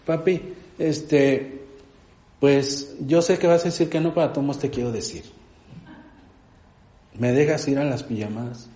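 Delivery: a hint of a child pleading her case to Dad; daughter asking permission. Daughter asks Papi about a pajama party, lightly imitated hesitant request. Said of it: "llegaba y me decía".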